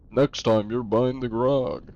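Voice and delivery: lightly voiced tavern stock line, slowed; mock a repeated game line; imitated game-character line. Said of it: "Annoying ass lines that you just hear".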